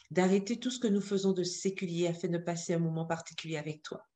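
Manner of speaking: soft, low, quick-flowing prayer; hushed congregational prayer in short pleading phrases; spoken prayer. Real, not acted. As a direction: address God gently in an even, unbroken flow. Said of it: "incliner la tête pour la prière".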